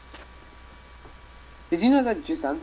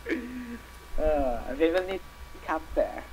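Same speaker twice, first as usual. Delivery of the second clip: lightly put-on old Mexican lady accent; a hint of an old Mexican lady accent asking for fare; much slower than usual. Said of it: "I sound like an old Mexican lady".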